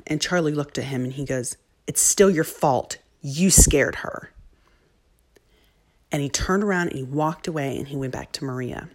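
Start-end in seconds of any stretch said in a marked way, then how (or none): 1.9-4.3 slow, deliberate mock accusation; retold child's reproach. Charlie telling off the little boy, slow and accusing. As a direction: put the blame on him, word by word.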